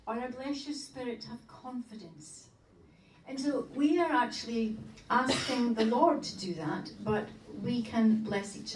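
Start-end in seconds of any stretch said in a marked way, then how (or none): 0.1-2.5 softly offered blessing; gentle blessing. Shown as a demonstration. Teacher modelling a second blessing for spouses, gentle and soft.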